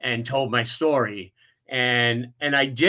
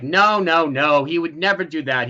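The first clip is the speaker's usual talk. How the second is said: loud, higher opening that settles down; retold insistent denial; 3 semitones higher, 4 dB louder than usual. Whole family defending the accused uncle, retold insistent denial. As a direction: imitate relatives firmly refusing to believe it.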